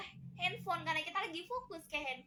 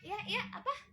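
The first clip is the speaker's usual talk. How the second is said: higher-pitched absent-minded acknowledgement; mock half-listening reply; distracted reply; 7 semitones higher than usual. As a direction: answer while absorbed in your phone. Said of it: "ngomong sambil main H P".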